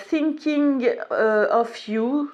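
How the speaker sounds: hesitant French-accented English. Real, not acted. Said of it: "avec mon super accent".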